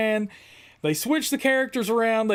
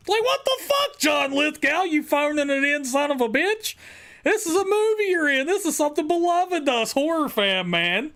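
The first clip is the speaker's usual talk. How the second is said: angry rant; 5 semitones higher than usual. Real, not acted. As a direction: yell at the actor in disbelief. Ranting at Lithgow's lazy delivery.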